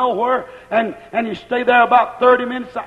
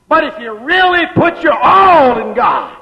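high, loud and slowed; fervent preacher's call; preaching shout; 4 semitones higher, 4 dB louder than usual. Real, not acted. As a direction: lift the congregation with it.

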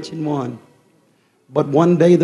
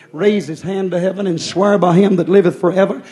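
rising preacher's climax; 3 semitones higher, 6 dB louder than usual. Acted. Sermon climax on Revelation ten.

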